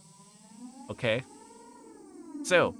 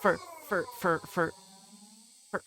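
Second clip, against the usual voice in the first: stammering through the giggles; can't get the word out for laughing; laughing stutter; 7 semitones higher than usual. Real, not acted. Laughing stutter while explaining.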